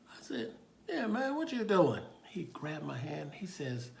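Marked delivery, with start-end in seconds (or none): 0.9-2.0 high, loud, friendly reply; raised-pitch chat with a child; talking to a child. Retold or imitated. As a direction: answer a little kid up high. Officer answering a small child.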